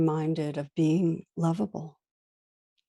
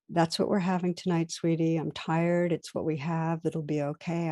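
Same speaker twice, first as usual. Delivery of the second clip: relatively calm. Retold or imitated. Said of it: "I say relatively calmly".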